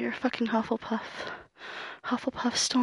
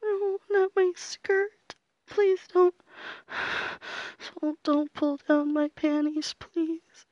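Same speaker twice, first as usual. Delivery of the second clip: terrified horror victim; 4 semitones higher, slower than usual. Acted. Frightened begging.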